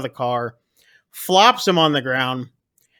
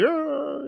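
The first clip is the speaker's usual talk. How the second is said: high, soft drawn-out "uh"; dad's wordless unease, mimicked high and quiet; retold uneasy grunt; 11 semitones higher, 7 dB quieter than usual.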